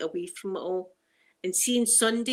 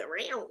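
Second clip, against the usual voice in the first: softer drawn-out cat yowl; imitated cougar meow; 8 dB quieter than usual. Explaining her idea of cougars, imitated meow. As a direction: mimic a big cat's meow, trailing down. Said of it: "Are they not like".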